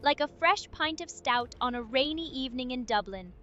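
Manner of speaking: lilting, not quite Irish accent. Shown as a demonstration. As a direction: put on an easygoing Irish lilt, softly. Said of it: "proper Irish lilt".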